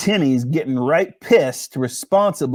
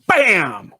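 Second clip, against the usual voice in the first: mock impact; 4 semitones higher than usual. Imitates a big hit.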